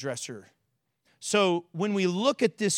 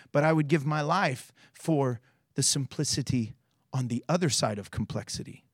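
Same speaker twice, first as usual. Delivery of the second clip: quoted reading; 4 semitones lower than usual. Acted. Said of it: "and it says".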